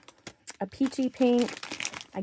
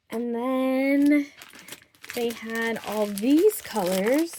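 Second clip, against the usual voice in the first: out of breath; much slower than usual. Real, not acted. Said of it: "Sorry, I'm a little out of breath".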